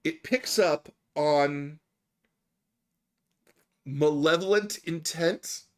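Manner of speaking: slow, deadpan quote with long pauses; straight-faced. Retold or imitated. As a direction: hold back laughter and deliver it very slowly. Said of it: "I gotta say it with a straight face".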